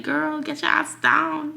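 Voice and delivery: high, loud, slow mock scold at the cat. She scolds an imagined cat on the counter, slow loud mock yell. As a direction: playfully yell at a cat on the cabinets. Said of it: "I'd be like".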